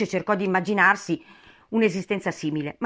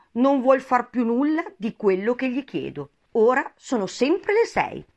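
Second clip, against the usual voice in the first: aggrieved lament, raised in pitch; doleful; 6 semitones higher, 4 dB louder than usual. A narrator's reading. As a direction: lament your sorry lot. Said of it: "in tono doloroso". (tono lamentoso e dolente)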